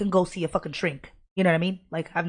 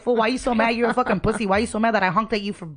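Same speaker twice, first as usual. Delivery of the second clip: heated, louder mock yelling at the driver; retold road rage; 3 semitones higher, 4 dB louder, faster than usual. Angry driver yelling at another driver: a heated retold yell. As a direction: yell it at the guy who flipped you off. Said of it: "and I'm like".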